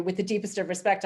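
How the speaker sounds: "With the deepest of respect" said politely, with a rising end; polite words, cross underneath; veiled British annoyance. Shown as a demonstration. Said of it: "I'm saying to you".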